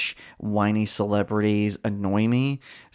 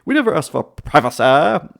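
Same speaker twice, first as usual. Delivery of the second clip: loud, higher-pitched whiny mock protest; hammed-up indignant caricature; Prince Harry complaining; 5 semitones higher, 8 dB louder than usual. Prince objecting to the producer about the episode, loud mock whining. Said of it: "told the producer, like, he had notes".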